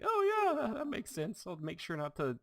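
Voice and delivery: high, airy put-on voice; exaggerated breezy agreement, starting very high and easing down; mock agreeable worker. Mock reply to asbestos talk.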